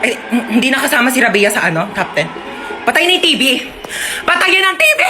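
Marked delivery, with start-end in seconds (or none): 2.9-5.0 mock scolding shout. Parent scolding family over TV.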